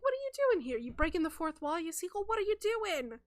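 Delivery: high-pitched disbelieving questions; baffled, indignant protest; incredulous rebuke. Acted. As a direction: call them out, voice jumping up. Imagined rebuke Kyle keeps to himself.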